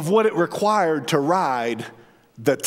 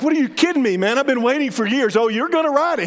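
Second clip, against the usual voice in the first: incredulous dad; 5 semitones higher, faster than usual. Retold or imitated. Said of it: "I was like".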